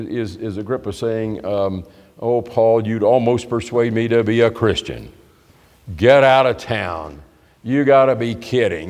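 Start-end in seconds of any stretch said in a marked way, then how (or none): 2.2-8.9 mock scoffing, dismissive reply; sarcastic. King Agrippa scoffing at Paul's attempt to persuade him, sarcastic. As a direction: brush it off with dry sarcasm. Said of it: "that kind of sarcasm".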